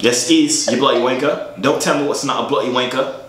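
a mock British insult, lightly accented; put-on British accent. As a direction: defend the accent in a hammed-up British voice. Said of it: "That's not Birmingham accent".

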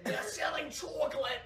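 Irish-sounding accent. Shown as a demonstration. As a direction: put on a shaky New York, landing Irish. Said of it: "You're doing more of an Irish".

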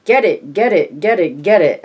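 put-on high, loud little boy's yell; toddler yelling at the top of his lungs. A narrator's reading. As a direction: shout it full out like a toddler running downstairs. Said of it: "yelling, at the top of his lungs".

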